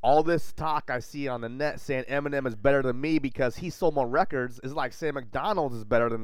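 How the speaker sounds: rapper voice, put on; doing a voice. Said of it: "Are you doing a voice?".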